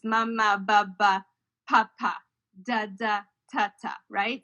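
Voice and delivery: baby babble syllables, lightly voiced; mama baba papa said like a baby trying them; babbling sounds demo. Shown as a demonstration. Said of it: "P, B, and M sounds".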